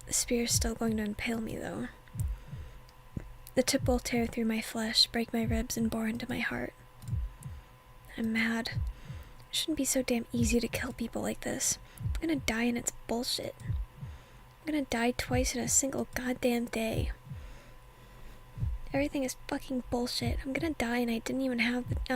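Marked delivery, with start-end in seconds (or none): 0.1-5.1 hushed whisper narrating the scene; whispered reading. Acted. 5.4-20.4 hushed whisper narrating the scene; whispered reading. Acted.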